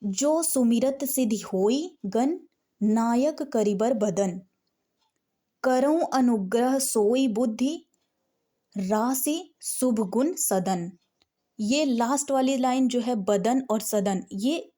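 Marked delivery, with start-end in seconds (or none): 0.0-10.9 slow, lilting verse with rising phrase ends; sortha recitation. Shown as a demonstration. Teacher shows students how to read the sortha, slow lilting recitation. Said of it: "सोरठा को हम ऐसे पढ़ेंगे".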